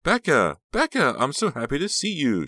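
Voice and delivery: very high, loud gushing squeal; shrieky, overjoyed greeting; delighted squeal. A narrator's reading. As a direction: squeal with joy at seeing a friend. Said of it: "she squealed".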